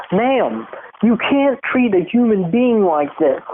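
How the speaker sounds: a hint of a whining politician; pleading plea. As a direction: beg her like a wounded man. Voicing him pleading with her.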